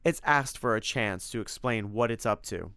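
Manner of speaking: a hint of exasperated reproach; Tim, scolding. Tim tells Simon he's getting out of control, mildly scolding.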